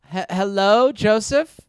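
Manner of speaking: lightly voiced mom on the phone; mock mother. Comic's mock mom answers her son's call, lightly put-on mother voice. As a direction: play his mother with a vague put-on accent. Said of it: "how do you think my parents would react".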